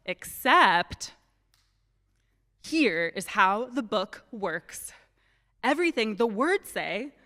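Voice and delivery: put-on slow, clear reading to children; story narration. A narrator's reading. Storyteller reading to children on the rug, slow and clear. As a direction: read it out for the kids gathered on the rug. Reads the book aloud to children.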